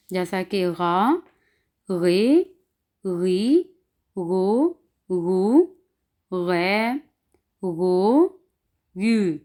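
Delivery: R said as Urdu ghain before each vowel; throaty "gh" sound on गा, गे, गी, गो; guttural German R. Shown as a demonstration. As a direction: demonstrate R as a ghain, syllable by syllable. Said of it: "आर की आवाज़ को हमने गैन अदा करना है".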